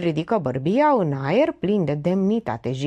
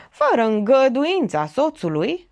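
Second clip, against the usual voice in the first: high-pitched solemn declaration; grandly pathetic; 8 semitones higher, 4 dB louder than usual. A narrator's reading. Witness defers to the husband, grandly pathetic. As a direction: declare it with theatrical pathos. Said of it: "declară patetic".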